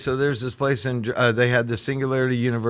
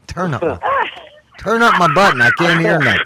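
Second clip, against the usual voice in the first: calling out; 6 semitones higher, 6 dB louder than usual. Real, not acted. Can't hear on the call.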